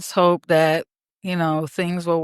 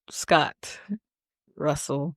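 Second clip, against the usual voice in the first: mock whisper; 4 semitones lower, 7 dB quieter, slower than usual. Teasing whisper of co-host's name.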